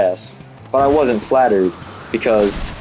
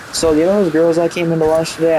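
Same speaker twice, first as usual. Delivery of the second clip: higher-pitched imitation of mom; lightly put-on, higher mom voice; mom's voice imitated; 7 semitones higher than usual. Mom asking about the lunch girls, lightly imitated.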